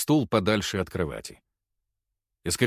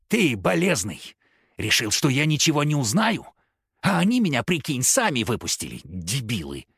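put-on street-kid rant; 2 semitones higher than usual. Girl mocking professor.

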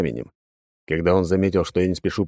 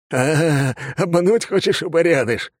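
high, grinning and cunning; gleeful drunk; 9 semitones higher, slower than usual. A narrator's reading. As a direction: sneer like a crazed drunk who sees through a trick. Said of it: "осклабился алкаш".

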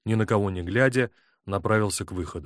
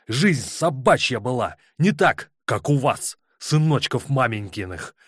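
furious; 4 semitones higher, 4 dB louder than usual. Acted. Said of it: "весь дрожа от ярости".

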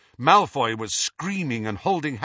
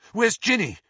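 sharp; 8 semitones higher than usual. A narrator's reading. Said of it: "he said sharply".

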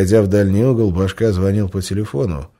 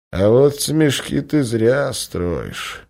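sad smile; 5 semitones higher, much slower than usual. Acted. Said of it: "с грустной улыбкой".

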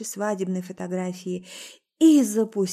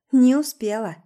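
indifferent snap; 4 semitones higher, 7 dB louder than usual. A narrator's reading. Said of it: "безразлично огрызнулась".

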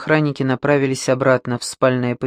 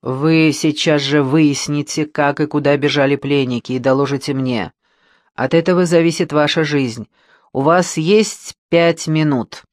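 calm menace. Acted. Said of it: "спокойным, но убийственным тоном".

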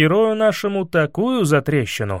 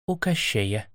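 much softer, low admission; grim quiet reply; 5 semitones lower, 8 dB quieter, slower than usual. A narrator's reading. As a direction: drop it quietly, reluctant.

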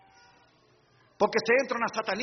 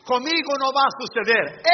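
proud boast; 3 semitones higher, 5 dB louder than usual. Shown as a demonstration. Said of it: "han pensado así".

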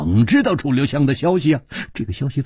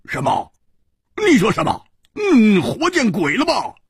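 high, indignant exclamations; angry outburst; 9 semitones higher than usual. Acted. Hu Tiehua hears his friend was kicked down, angry outburst. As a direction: fire back in angry disbelief, pitch leaping up. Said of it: "胡铁花怒道".

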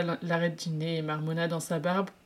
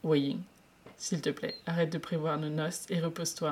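imploring; 4 dB quieter than usual. Acted. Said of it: "implora Lan Zhan".

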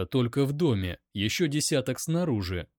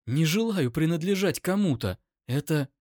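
higher, distressed protest; trembling voice; 6 semitones higher than usual. A narrator's reading. Captive protests being owned by anyone, trembling. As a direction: plead it with a touch of tremor. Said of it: "Её голос дрожал".

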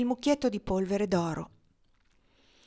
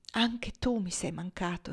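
happy; 3 dB quieter than usual. Acted. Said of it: "rispose lei felice".

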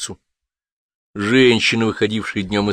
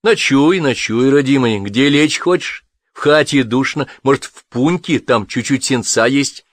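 lightly voiced kindly old woman; 5 semitones higher, 4 dB louder than usual. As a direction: fuss over the guest kindly. Woman offers the soldier lodging.

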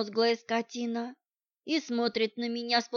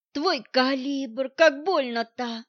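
howling in pain; 3 semitones higher, slower than usual. Acted. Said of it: "Я взвыл".

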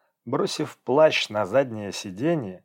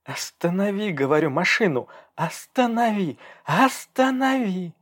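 escalating demand; 9 semitones higher than usual. Acted. Girl demands he stop. (всё выше, до протяжного крика)

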